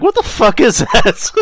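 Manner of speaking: mock baffled friend. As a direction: play a stunned friend. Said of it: "Kyle's like".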